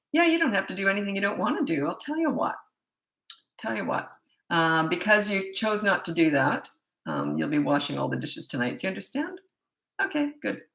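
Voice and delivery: breezy like a business deal, no anger; calm disciplining voice. Shown as a demonstration. Mom to a kid refusing dishes, calm breezy discipline. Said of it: "and I always talk like this, when I'm disciplining".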